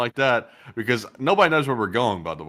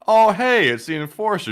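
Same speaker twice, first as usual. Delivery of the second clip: louder, higher startled callout; loud recognition; 8 semitones higher, 5 dB louder than usual. Pretend. Fan loudly outing the streamer in public. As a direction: blurt out his name, a bit too loud. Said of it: "and not".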